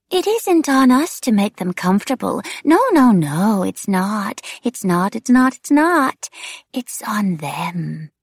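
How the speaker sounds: high singsong, repeating itself unhinged; demented wraith. A narrator's reading. Wraith shifts the blame to others, crazed singsong. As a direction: swoop high and loud, then drop and draw out the end. Narrator plays demented Nicolina.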